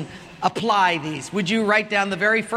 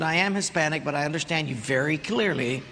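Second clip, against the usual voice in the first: sweetly calm; 6 semitones lower than usual. Retold or imitated. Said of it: "the lady was so sweet".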